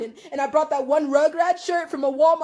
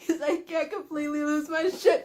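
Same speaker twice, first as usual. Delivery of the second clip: quiet laughing cry; real laugh with tears behind it; laughing through tears; 5 dB quieter than usual. Real, not acted. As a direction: laugh while almost breaking. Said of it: "I'm still laughing".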